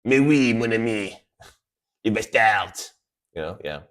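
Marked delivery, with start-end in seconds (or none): 0.0-2.7 lightly put-on French accent; mock French accent. Joking to viewers in a playful mock French accent. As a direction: tease in a fake French voice. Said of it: "I took the voice".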